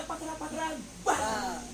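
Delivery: imitated lock noise. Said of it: "The way the key sound".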